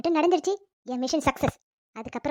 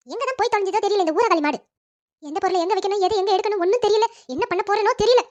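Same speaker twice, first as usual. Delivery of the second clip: louder, rising irritated complaint; exasperated grumbling; 3 semitones higher, 4 dB louder than usual. Acted. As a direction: grumble with building annoyance. Mother-in-law grumbles about missing daughter-in-law. (எரிச்சலோடு புலம்பல்)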